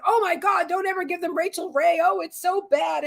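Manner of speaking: put-on enthusiastic young vet. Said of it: "very enthusiastic and very brainwashed".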